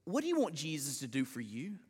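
low, quiet appeal to the listeners; hushed pastoral question; soft heartfelt question. Real, not acted. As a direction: ask it gently and let it sink in. Preacher puts the question to congregation.

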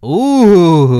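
loud high ooh of approval; loud, high approving ooh; excited ooh. Real, not acted. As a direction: hype reaction to the song. Reacting to Many Men.

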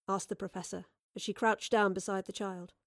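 plain reading voice

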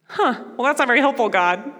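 a playful sarcastic gripe; mock sarcastic complaint. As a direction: tease God dryly.

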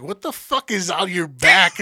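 loud, drawn-out startled question; retold alarm. Friend spots something on his back, loud alarm. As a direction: stretch it out loudly in alarm.

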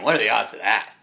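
loud, stunned complaint; mock outrage. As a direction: protest the bad luck loudly. Slams his hand down.

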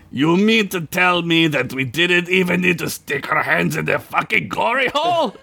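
high, climbing outraged yell; acted indignation, rising sharply in pitch. A narrator's reading. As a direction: build to an incredulous high squawk. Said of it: "Gunk yelled".

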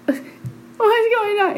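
high, drawn-out mock sobbing; crying husband. Crying husband over his revived wife, imitated high tearful wail. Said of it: "he's crying".

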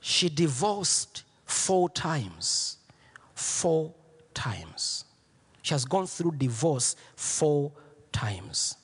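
slow confiding whisper. Acted. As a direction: lean in and whisper the secret. Confiding a painful secret.

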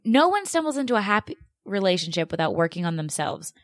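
mildly mocking repeat of advice; heated quote. Host repeats the article's claim, mildly heated mockery. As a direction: quote it back with irritation. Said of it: "this gets me heated".

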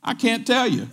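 high-pitched playful refusal; retold teasing, holding back a secret. Preacher refuses to tell curious friend, playfully teasing. Retelling himself withholding a secret.

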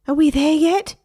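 high, loud whiny parrot; a parrot nagging outside the bedroom, high and loud; impatient parrot. A narrator's reading. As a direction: whine like a bored kid.

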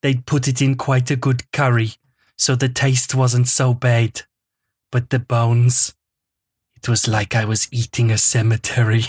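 lightly done German-tinged Herzog reading, grave and deliberate; Werner Herzog voice. Acted. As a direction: read the column like a brooding German documentary narrator. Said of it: "because Werner Herzog's saying them".

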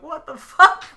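high, loud, laughing what; laughing disbelief. Retold or imitated. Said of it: "they come out laughing like".

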